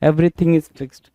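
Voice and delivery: very slow, each word weighted; slow emphatic phrase. Shown as a demonstration. Teacher stressing an example phrase for students, very slowly. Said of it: "everything is fixed मतलब क्या?".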